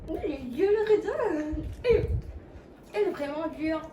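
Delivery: talking with a mouth full; chewing a hard raisin while speaking; messy eating. Real, not acted. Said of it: "désolée de parler la bouche pleine".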